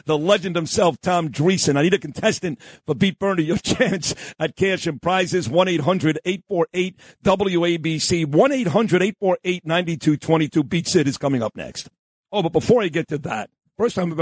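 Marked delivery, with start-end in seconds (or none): 0.0-11.9 radio announcer read. Acted. Radio host plugging the call-in contest to listeners, upbeat announcer voice. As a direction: sell the contest line like a DJ.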